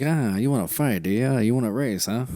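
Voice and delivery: loud, teasing challenge; taunting attitude. Retold or imitated. Retelling the actress taunting the driver, loud mock challenge. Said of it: "she had that, that kinda attitude".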